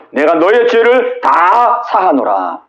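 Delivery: 느리고 엄숙한 선언; 한 마디씩 천천히 선포하듯; 하나님의 선언. Acted. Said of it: "하나님의 용서 선언". (느린 엄숙한 하나님의 선언)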